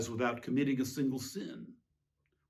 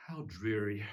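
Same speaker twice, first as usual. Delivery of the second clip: whispered, bored and tired; weary whisper; 4 semitones lower, 5 dB quieter than usual. Acted. Herod to himself, bored by it all, whispering. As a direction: breathe it out as a jaded sigh.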